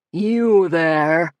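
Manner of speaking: a shrill, commanding call; strident shriek. A narrator's reading. Angry cult leader yells at the trespasser, strident. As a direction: call out sharply at the intruder. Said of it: "he shrieked in a strident voice".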